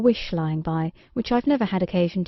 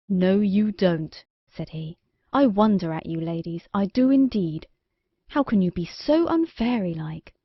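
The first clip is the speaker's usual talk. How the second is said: lightly voiced stern king. King rebukes the fairies.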